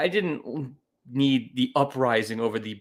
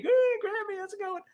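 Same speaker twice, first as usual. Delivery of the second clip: creepy teasing voice; 5 dB quieter, faster than usual. Acted. Teasing mom with snake.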